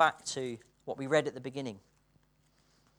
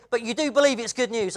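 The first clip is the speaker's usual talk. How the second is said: earnest friend; 8 semitones higher, 11 dB louder than usual. Retold or imitated. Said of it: "He said".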